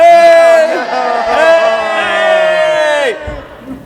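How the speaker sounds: very high, loud call-out "Hey!"; shout. Real, not acted. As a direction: yell to stop everyone. Shouts to call out the rule-break.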